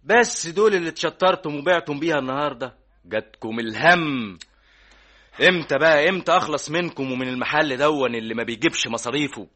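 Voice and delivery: fed-up boss snapping at his worker; angry scolding. Acted. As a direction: berate him for the poor sales. Scolding the worker over sales.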